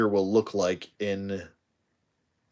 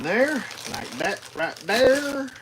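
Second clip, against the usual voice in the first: squeaky high; 13 semitones higher than usual. Real, not acted. Playful high exclamation.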